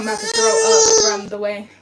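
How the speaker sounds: high, loud crying. Real, not acted. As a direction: voice breaking into sobs. Grieving mother breaks down.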